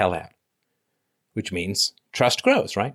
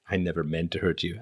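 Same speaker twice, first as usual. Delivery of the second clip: mocking quote; 5 semitones lower, 8 dB quieter than usual.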